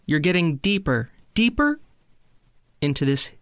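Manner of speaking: lightly put-on hypnotist, long pauses; unhurried spoof meditation guide; mock hypnosis countdown. Takes over the mock countdown.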